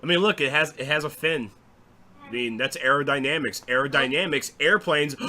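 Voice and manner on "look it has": ordinary delivery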